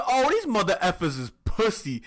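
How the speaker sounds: high, loud mock bravado; hyped-up cockiness. Mage feeling herself after one kill, acted hype. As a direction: crow it, full of yourself. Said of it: "So she started hype".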